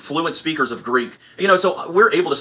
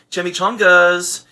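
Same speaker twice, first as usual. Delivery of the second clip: put-on drawn-out Valley girl mispronouncing menu items; mock Valley girl; 3 semitones higher, slower than usual. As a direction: sound like a California Valley girl reading a menu. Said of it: "literally sounds like a California Valley girl".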